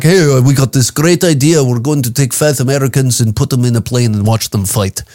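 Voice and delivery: a lightly voiced airline executive pitching an idea; mock airline pitch. Comic mocks an airline boss with a hinted pitch voice. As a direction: pitch it like a smug exec, lightly. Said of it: "They're like".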